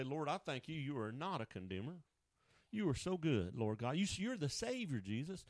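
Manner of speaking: quiet prayer. Pretend. Preacher modelling a silent prayer of praise, soft and humble. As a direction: pray it gently under your breath. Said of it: "you stop and say".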